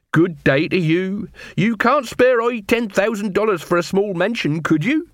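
high, begging patter; wheedling beggar queen. Acted. Beggar queen asks a newcomer for money, high wheedle. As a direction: beg in a high-pitched woman's voice.

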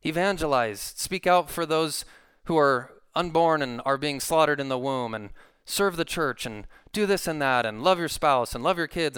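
mock-pushy string of urgings, pitch lifting as it goes; nagging exhortation. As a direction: imitate someone pressing people into duty. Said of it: "yanking your arm and saying".

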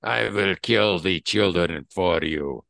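loud vow from a hammed-up Russian villain; Russian accent, sizzling oil. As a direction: pledge it forcefully in a Russian accent. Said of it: "your Russian accent to sizzling oil".

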